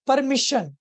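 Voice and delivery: परमिशन with a loud, punched MI before shun; stress on second-last syllable. Shown as a demonstration. Teacher showing where stress falls, परमिशन stressed on मि. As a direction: hit the मि in परमिशन. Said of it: "तो यहाँ पे शियन आ गया".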